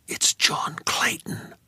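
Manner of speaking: hushed, unvoiced whisper. A narrator's reading. Dreamer whispering to Sadie in fear. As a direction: whisper it so the thing upstairs won't hear. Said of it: "I whispered".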